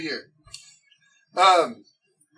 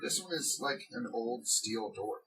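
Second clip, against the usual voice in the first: slow game master narration; 10 semitones lower, 4 dB quieter, slower than usual. Acted. Game master describes the door.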